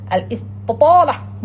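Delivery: "Al-Istitala" said wrongly, the t punched and doubled; mispronunciation. Shown as a demonstration. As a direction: hit a heavy doubled t in "Al-Istitala". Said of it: "No, Al-Istitala".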